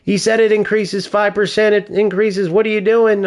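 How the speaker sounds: high-pitched mock protest in own accent; imitation without accent. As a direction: imitate his complaint, accent dropped, pitch kept up. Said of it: "pretend I'm speaking with a British accent".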